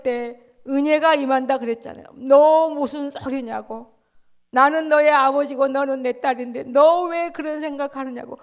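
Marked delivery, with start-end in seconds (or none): 2.1-8.4 a father's loving rebuke. Acted. Preacher voices God the Father.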